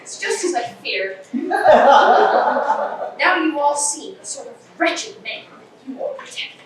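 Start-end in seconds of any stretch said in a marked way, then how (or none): 3.2-6.6 gloating laugh. Acted. Inspector gloats over the suspects.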